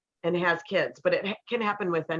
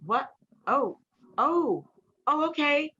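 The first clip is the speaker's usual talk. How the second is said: higher surprised oh, oh, okay; startled realization; 9 semitones higher, slower than usual. Retold or imitated. Boyfriend, realizing she is scared, surprised oh okay. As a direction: caught off guard and softening at once.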